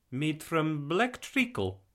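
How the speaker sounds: deliberate Eastern European explainer; heavy Eastern European accent. A narrator's reading. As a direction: list an ingredient slowly in a thick Eastern European accent. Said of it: "in a heavy Eastern European accent".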